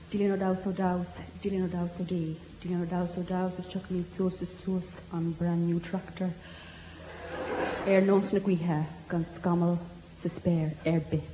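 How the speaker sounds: soft, measured incantation; hushed mock-solemn verse; mock Irish recitation. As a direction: intone it like a solemn old Irish warning.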